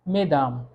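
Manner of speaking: "मेदाम" with e in the first syllable; pronunciation demo. Shown as a demonstration. Teacher repeating the French word for learners, careful demonstration. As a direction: repeat "मेदाम" as a careful model, s left silent. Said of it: "यहाँ पे pronunciation ई का होगा".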